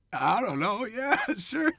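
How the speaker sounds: high-pitched, unsure mock reply; high, uncertain imitation of himself; clueless agreement. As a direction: agree loudly with no idea, pitch way up. Unsure reply to stunt guy.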